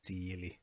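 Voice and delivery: tiili with a long ee sound; tiili, pitkä i; long Finnish i. Shown as a demonstration. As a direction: hold the first i in tiili. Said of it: "the pair of them is pronounced as a I".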